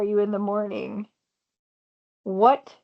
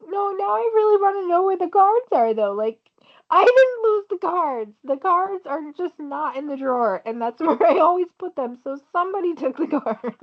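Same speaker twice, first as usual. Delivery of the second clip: laughing; 6 semitones higher than usual. Real, not acted. Laughing about lost cards.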